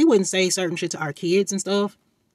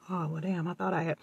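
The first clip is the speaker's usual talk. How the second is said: deflated; 7 dB quieter than usual. Retold or imitated. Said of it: "you think to yourself".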